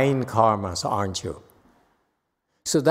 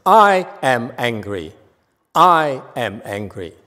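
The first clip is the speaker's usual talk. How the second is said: deliberate acknowledgment; 3 semitones lower, 3 dB louder than usual. Shown as a demonstration. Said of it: "look at your affliction and say".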